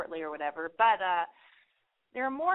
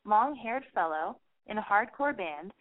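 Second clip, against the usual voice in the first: mock-giddy thoughts with high peaks; lightly voiced giddy excitement; giddy inner thoughts; 3 semitones higher than usual. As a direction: swoon in your head over the cute singer. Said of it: "I get all excited".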